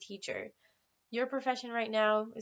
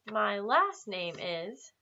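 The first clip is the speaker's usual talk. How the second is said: slow model phrase; much slower than usual. Shown as a demonstration. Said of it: "you would say".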